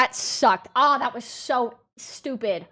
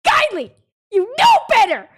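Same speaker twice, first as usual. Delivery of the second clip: mock scolding; 10 semitones higher, 5 dB louder than usual. Scolding chat over music.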